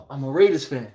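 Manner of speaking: hushed "I'm a Raiders fan" breaking into a laugh; laughing whisper. Retold or imitated. Fan repeating the admission, hushed and laughing. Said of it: "you gotta whisper that shit like".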